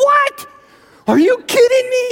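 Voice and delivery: very high, loud squeal of shock; shocked disbelief. Acted. Boy hears of ditch danger, squealing in shock. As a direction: squeal it like a horrified kid.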